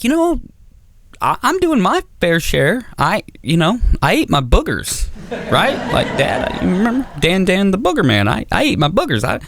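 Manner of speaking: put-on high, defensive little-kid voice; hammed-up boy making excuses; pleading young son. Young son pleading his case to dad.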